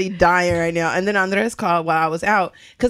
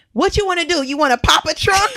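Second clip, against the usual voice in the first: mock alarm; 9 semitones higher than usual. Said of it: "I was like".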